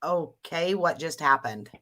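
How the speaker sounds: quietly baffled, voice sinking; baffled reaction. Retold or imitated. Acting out her baffled reaction.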